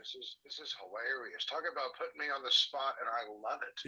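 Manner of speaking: phone speaker. Real, not acted. Caller heard over phone speaker.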